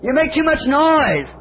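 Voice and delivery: high, slow scolding hush; hushing the mourners. Acted. Jesus tells the noisy mourners to keep still, high and slow. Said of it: "He said".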